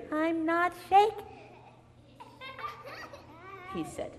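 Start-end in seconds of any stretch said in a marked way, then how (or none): 0.1-1.2 put-on high, loud little-girl denial; defensive storybook little girl; protesting little girl. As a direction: insist in a raised voice.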